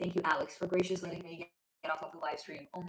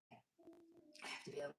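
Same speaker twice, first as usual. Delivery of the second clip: quiet; 5 semitones lower, 17 dB quieter, slower than usual. Real, not acted. Muttered reassurance to herself.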